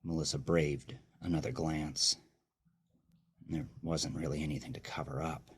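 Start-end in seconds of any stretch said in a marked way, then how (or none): 3.5-5.5 bitter thought. Acted. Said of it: "she thought bitterly".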